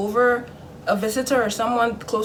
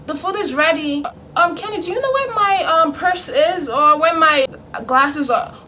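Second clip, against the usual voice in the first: much higher, coaxing mock-parent voice; soothing parent; 9 semitones higher, 5 dB louder than usual. Parent smoothing things over after punishment, soothing. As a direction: imitate a parent sweetly making up, pitched way up. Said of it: "soothe you".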